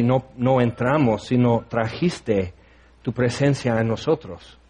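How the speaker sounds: measured prayer, pausing between phrases; heartfelt prayer. Real, not acted. Congregation's leader thanking the Lord for grace, heartfelt prayer. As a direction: pray aloud in unhurried, halting phrases.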